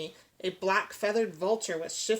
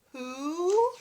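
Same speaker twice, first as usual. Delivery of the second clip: owl hoot; 7 semitones higher than usual. Acted. The owl hoots.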